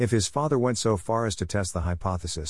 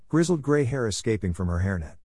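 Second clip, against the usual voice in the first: ordinary delivery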